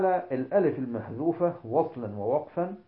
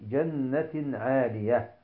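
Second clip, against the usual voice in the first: Quran recitation; much slower than usual. Shown as a demonstration.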